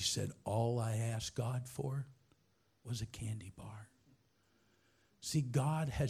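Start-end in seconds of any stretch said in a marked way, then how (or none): 0.4-3.9 hushed, low-pitched imitation of someone in tears; retold tearful admission. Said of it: "And she started crying".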